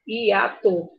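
normal talking voice

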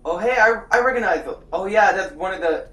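excited. Real, not acted. Recognizing the game, excited.

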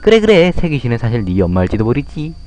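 put-on taunting bully kid. Bully kid mocking the crying boy, a light sneering voice. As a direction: jeer at the crybaby like a schoolyard bully.

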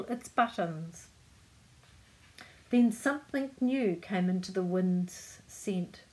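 measured picture-book reading; story narration. A narrator's reading. Reader telling children of the kite flight, story narration. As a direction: read the tale aloud to children.

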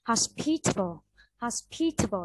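"Hospitable" with pi highest and the rest dropping; stress on second syllable. Shown as a demonstration. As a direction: punch the pi in "Hospitable", reduce the next syllable to tuh. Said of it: "cái từ khi là nó cao nhất". (đọc "Hospitable", âm pi cao nhất, âm sau thấp lại)

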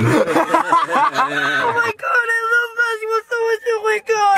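overwhelmed sobs breaking into words; real happy crying. Real, not acted. Fan given Lakers tickets, real happy crying. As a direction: cry with joy, words tumbling out.

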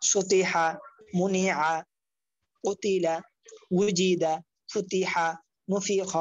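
each word whole, pause between words; joined-up reading. Shown as a demonstration. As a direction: model words like "সুতি হা" with syllables blended. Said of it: "এরপর reading করবেন".

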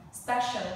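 "Special" in two syllables, with a clear "sh"; clear SH sound. Shown as a demonstration. Teacher modelling a word for the class, "Special" with a clear "sh". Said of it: "two syllable and sure sound".

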